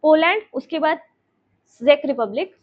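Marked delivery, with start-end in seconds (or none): 1.8-2.6 जेक रिपब्लिक said with a plain J sound and no C; जेक रिपब्लिक spoken as "jek", never "chek"; silent C in Czech. Shown as a demonstration. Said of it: "सी, अ, silent होते हैं".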